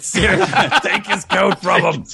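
high-pitched, laughing through the words; real laughter breaking into speech. Real, not acted. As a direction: crack up while echoing the joke. Laughing along at the joke.

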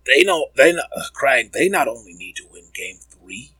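lightly imitated sports pundit; deliberate, emphatic analyst cadence, lightly mimicked; Jalen Rose. Podcaster doing his impression for Krang, light pundit impersonation. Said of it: "That was my Jalen Rose impression".

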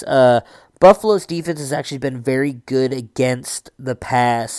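put-on Boston accent, pushed harder. Shown as a demonstration. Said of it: "I want it to be Boston".

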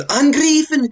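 high, loud mock battle yell; imitated yelling. Villain ordering his soldiers to attack, yelling. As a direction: yell it like a villain commanding troops. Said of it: "He's yelling at his soldiers".

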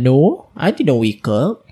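slow, lightly imitated American accent; drawn-out American-accented denial. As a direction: mimic a brother's American accent. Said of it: "With the accent".

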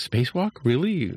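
high, anxious squeak of a question; mildly voiced nervous disbelief; a touch of nervous panic.

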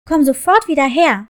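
put-on furious mother yelling after child; angry shout. A narrator's reading. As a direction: shout him back angrily. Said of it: "sah ihm wütend hinterher und rief".

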